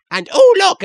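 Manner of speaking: high, loud delighted exclaim; delighted kid squeal; excited gasp. Acted. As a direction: spot a shiny treasure. Excited kid spots shiny box.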